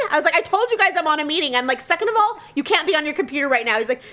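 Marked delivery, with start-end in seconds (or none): 0.3-1.5 mildly raised, exasperated scolding; retold yelling tirade. Wife scolding her husband during a meeting, mildly retold tirade. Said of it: "diatribe of me yelling at everyone". 1.8-3.8 exasperated scold, jumping high at the start; retold yelling tirade. Wife ordering her husband off the computer, retold exasperated scolding. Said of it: "diatribe of me yelling at everyone".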